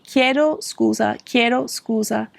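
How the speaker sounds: chiedo scusa slow, KYEH-do SKOO-za; slow clear Italian: chiedo scusa; Italian demo. Shown as a demonstration. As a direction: say chiedo scusa slowly twice. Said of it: "you could just say".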